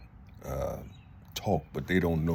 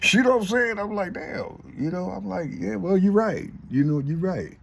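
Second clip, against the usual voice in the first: laughing; 12 semitones higher than usual. Real, not acted. Laughing, admitting he was right.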